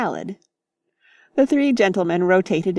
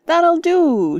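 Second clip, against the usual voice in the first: much higher, louder commanding shout; 10 semitones higher, 6 dB louder than usual. Acted. Mister Beebe stops the romp, commanding shout. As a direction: call a halt firmly. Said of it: "shouted Mister Beebe".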